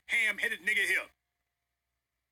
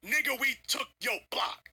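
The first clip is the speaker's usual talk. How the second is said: blunt street-corner taunt; street talk; 3 semitones higher than usual. Shown as a demonstration. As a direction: talk like the block is yours. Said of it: "say this in street terms".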